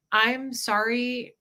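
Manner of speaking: tearful sorry. Retold or imitated. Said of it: "I remember I was crying".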